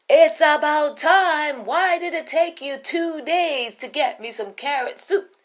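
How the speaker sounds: a haughty queen tired of waiting; queen demanding her soup, high and sharp; impatient queen. Acted. Queen scolds the cook.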